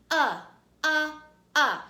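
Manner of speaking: UH said loud as short U in up; short U sound. Shown as a demonstration. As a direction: punch out UH like the start of up. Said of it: "Say it with me".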